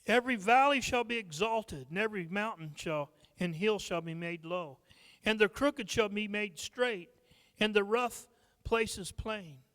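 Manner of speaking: a preacher reading Isaiah to the church; scripture reading. Acted. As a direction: lift the words like holy writ. Reads scripture aloud.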